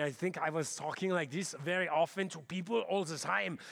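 light German accent, like Schwarzenegger. Shown as a demonstration. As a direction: lean into a mild German accent. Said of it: "sound a little bit more like Arnold Schwarzenegger".

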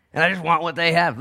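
high, loud acted complaint; mock envious outburst. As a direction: blurt out the envy, high and loud. Acts envy out openly, louder.

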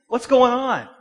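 high, shouted exasperated challenge; loud confrontation. Acted. Preacher confronting the angry person, shouting.

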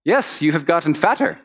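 lightly acted matter-of-fact bluntness; blunt Dutch girl. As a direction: state it as plain fact, no cushioning. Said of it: "would tell it like it was".

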